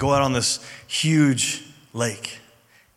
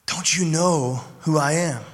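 gently smiling. Retold or imitated. Jesus to his frightened disciples, gently smiling. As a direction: ask it gently, leaving long pauses. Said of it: "he has to be smiling when he says this".

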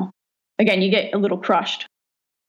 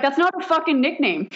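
laughing protest; 7 semitones higher than usual. Retold or imitated. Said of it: "And Marty's like".

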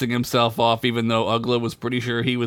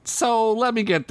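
Ugla; 10 semitones higher than usual. Acted. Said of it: "Ugla said".

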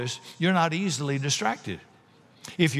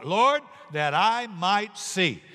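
earnest slow plea; 5 semitones higher, slower than usual. Acted. Beggar pleads, slowed.

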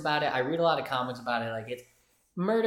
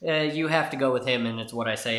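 mock author; 7 dB louder than usual. Old author voiced in retelling.

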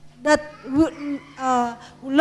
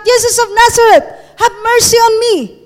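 slightly raised, higher and quicker cry; mock shout; 5 semitones higher, faster than usual. Preacher asking why the beggar didn't shout this, mild acted shout. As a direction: call out a sample plea. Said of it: "Why he did not shout".

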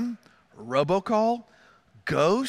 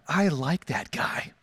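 deliberate, lower-pitched verdict; slow, low approval; 4 semitones lower, 3 dB quieter, slower than usual. Retold or imitated. Husband to wife about the parent who helped, slow low approval. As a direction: let it out slowly and low, weighing each word.

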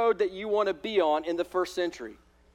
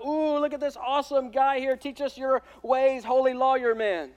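mock admiring crowd; 5 semitones higher than usual. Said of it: "hoping the crowd will go".

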